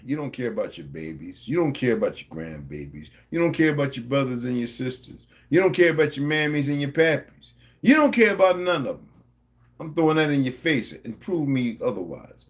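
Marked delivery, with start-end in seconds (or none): 0.0-9.1 building accusation. Real, not acted. Accusing viewers, building anger.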